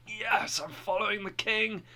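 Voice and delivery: thrilled pilgrim talking to himself; excited. Retold or imitated. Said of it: "He was all excited".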